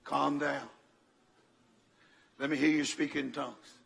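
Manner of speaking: low, soft, measured reassurance; calming. Retold or imitated. Grandpa to his panicking wife on the phone, low and calming. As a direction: settle them down gently, leaving space.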